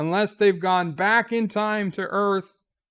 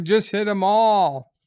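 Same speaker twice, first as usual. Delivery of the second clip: put-on kid's eager shout; 4 semitones higher, 5 dB louder than usual. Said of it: "It's like".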